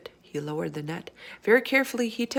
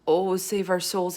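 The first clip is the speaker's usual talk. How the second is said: anguished; 3 dB louder, slower than usual. Acted. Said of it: "he cried; voice filling with fear and anguish".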